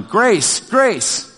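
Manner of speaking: calling out. Retold or imitated. Grandpa at the table calling for his wife, mild retold yell. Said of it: "so I started yelling".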